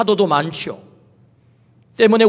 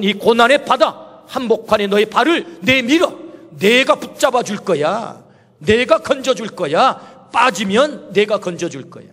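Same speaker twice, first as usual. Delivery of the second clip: reassuring Lord. Acted. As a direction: hold them steady with calm words. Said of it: "주님이 말씀하는 것입니다".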